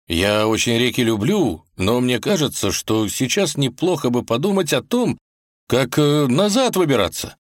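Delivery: unsure. Acted. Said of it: "неуверенно заметил Иван".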